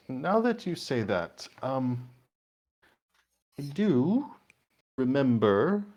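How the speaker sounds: a hint of a genteel old merchant; chatty shopkeeper recalling gossip; lightly voiced shopkeeper. Shopkeeper telling Harold about the attack, lightly voiced.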